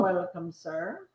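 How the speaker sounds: slow vampire welcome; slow and courtly, like a Transylvanian count; Transylvanian accent. Acted. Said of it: "you did that in, like, a vampire voice".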